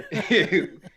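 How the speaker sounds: brief laugh at himself; short laugh. Real, not acted. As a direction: laugh it off after the rant. Laughs at own outburst.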